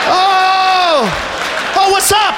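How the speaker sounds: high, caught-out squeak; startled ant. Acted. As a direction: act caught red-handed.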